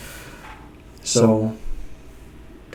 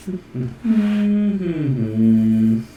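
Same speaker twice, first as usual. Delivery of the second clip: high laugh sliding down in pitch; long closed laugh, starting high and falling; 4 semitones higher than usual. Real, not acted. Laughs at own mistake.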